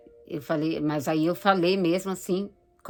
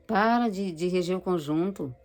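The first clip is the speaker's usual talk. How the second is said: enemy's taunting voice. Retold or imitated. Devil urging the choir leader to stop. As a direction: voice the devil nagging her to quit. Devil tempting her to quit.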